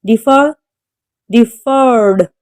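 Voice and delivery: deferred, stressed on FERRED; deferred with the weight on its second syllable. Shown as a demonstration. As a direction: say Defer as de-FER. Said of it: "The stress is on second syllable".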